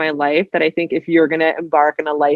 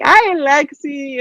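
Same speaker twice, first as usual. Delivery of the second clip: sheepish dad; 9 semitones higher, much slower than usual. Retold or imitated. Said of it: "he was like".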